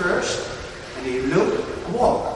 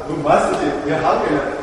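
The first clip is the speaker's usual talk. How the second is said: humble servant; 4 semitones lower, 3 dB louder than usual. Shown as a demonstration. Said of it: "completely different".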